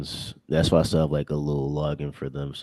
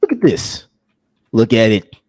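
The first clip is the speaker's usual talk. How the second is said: outraged squeal; 5 semitones higher, 11 dB louder than usual. Real, not acted. Pointing at ugly laser gun.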